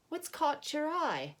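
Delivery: high, slow, put-on old man voice; old man's curious question, slow and high; old organ grinder voice. Albert asks, voiced.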